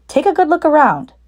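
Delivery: a sly dad hinting at a surprise; Mister Fox. Acted. Mister Fox teasing children.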